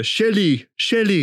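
high, mock-cartoon calling of a name; Randy Marsh. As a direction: wail the name like a cartoon dad. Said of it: "like, Randy Marsh energy".

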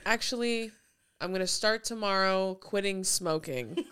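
imitating a vlogger. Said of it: "he was like".

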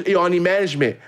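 very high, loud mock voice of a stranger; imitating pushy stranger. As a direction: squeal it like the pushy guy.

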